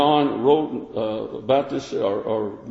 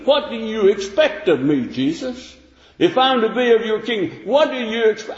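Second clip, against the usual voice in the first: high, pleading question to Jesus; lightly voiced follower asking what's expected; voicing a disciple; 8 semitones higher than usual. Preacher voicing a disciple asking Jesus, high and earnest.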